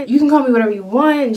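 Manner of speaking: quick loud playful warning; loud and fast. Real, not acted.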